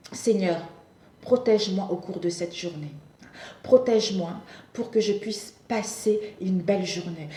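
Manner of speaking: measured, slightly hushed prayer with pauses; gentle, composed plea to the Lord; morning prayer. Shown as a demonstration.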